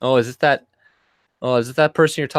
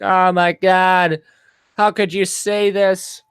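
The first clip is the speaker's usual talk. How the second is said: mock shocked whine; 4 semitones higher, slower than usual. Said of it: "they're like".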